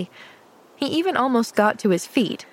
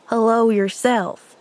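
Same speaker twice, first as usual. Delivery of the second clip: mumbled; 4 dB louder than usual. Acted. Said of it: "he mumbled".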